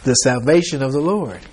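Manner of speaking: unhurried, steady and calm; very calmly. Retold or imitated. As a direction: say it like God soothing a scared crowd. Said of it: "very calmly".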